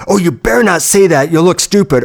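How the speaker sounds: a hint of a berating parent; abusive parent. Inner critic scolding him for looking stupid, lightly voiced abusive parent. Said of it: "like a, an incredibly abusive parent".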